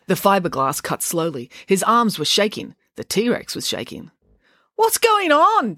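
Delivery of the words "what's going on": high, drawn-out yell; raised, stretched shout. A narrator's reading. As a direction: shout it loud over a racket. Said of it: "Joe yelled".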